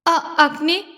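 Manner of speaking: choked, pleading call of his name; tearful cry of his name. Acted. Girl crying out to her husband, tearful. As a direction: break on the first syllable, then call him.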